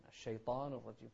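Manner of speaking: الشيطان with a silent-vowel nun; dropped vowel mistake. Retold or imitated. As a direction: end الشيطان on n, no i. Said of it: "فيسكن النون". (الشيطان بنون ساكنة)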